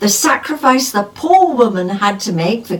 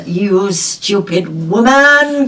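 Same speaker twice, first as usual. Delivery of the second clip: exasperated husband; much slower than usual. Retold or imitated. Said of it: "using the term".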